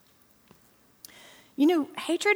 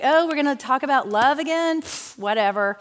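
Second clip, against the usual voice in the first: dismissive pfft; 2 semitones higher than usual. Retold or imitated. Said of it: "It's pretty sad whenever you're like".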